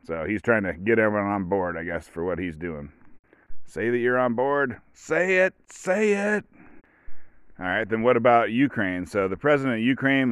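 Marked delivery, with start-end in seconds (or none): 3.7-6.4 much higher mock insistence, repeated; mock Putin badgering his officials; pushy demand. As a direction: press them to say it, hammed up.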